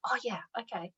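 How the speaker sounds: soft whispered aside, as if to herself; whispered inner thought. Retold or imitated. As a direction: breathe it like a sudden private realization. Voicing the listener's inner realization.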